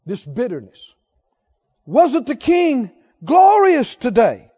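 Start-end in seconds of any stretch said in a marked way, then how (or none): 1.8-4.5 slow, loud mocking sneer; drawn-out scornful jab at the king; sarcastic mockery. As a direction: stretch it out with biting sarcasm. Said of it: "this sarcasm".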